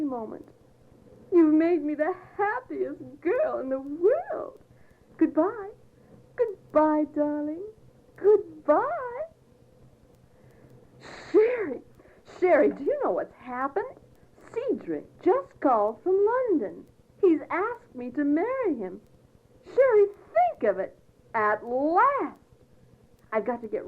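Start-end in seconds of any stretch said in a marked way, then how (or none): 1.3-8.8 put-on girlish squeals. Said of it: "your girlish squeals". 11.3-22.4 excited. Acted. Bursting with engagement news.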